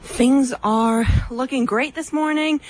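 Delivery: speaking while catching breath; a bit winded, pushing words out. Real, not acted. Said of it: "Sorry I'm a little out of breath".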